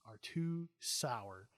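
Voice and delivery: put-on very slow, dragged complaining kid; imitating a whiny kid. Son complaining about sour beans, dragged-out whiny kid voice. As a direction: whine it out slowly like a fussy child. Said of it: "And he goes".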